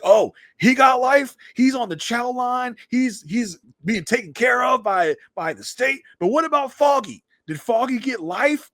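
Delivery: high, incredulous retort; indignant challenge. Retold or imitated. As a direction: act out an outraged cross-examination, stretching the key words. Frank challenges Matt, retold.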